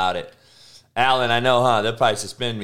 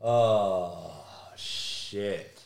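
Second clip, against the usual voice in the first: breathy whispered shit under his breath; a real stunned whisper; whispered curse; 9 semitones lower, 10 dB quieter than usual. Real, not acted. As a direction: let it slip out as a whisper. Stunned at the picture.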